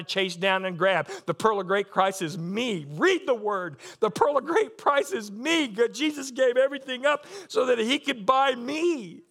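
loud, rising sermon delivery; exultant preacher with bursts of laughter; fervent preaching. Real, not acted. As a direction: build to jubilant emphasis, stretching key words. Preaches at full force.

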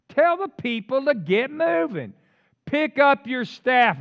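loud, high, slow commands; booming scriptural command; God commanding. Acted. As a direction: order it forcefully, each phrase drawn out. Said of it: "Then the Lord said to Moses".

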